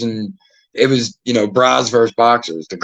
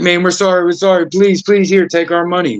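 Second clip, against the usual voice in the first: high, urgent mock begging; re-enacted frantic apology, pitched up; panicked pleading; 8 semitones higher, 4 dB louder than usual. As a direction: plead like a caught teenager. Scared teenagers begging not robbed.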